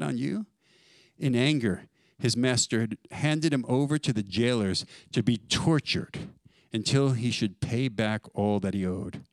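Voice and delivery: preacher reading the parable aloud; scripture reading. Real, not acted. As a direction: read the parable with weight.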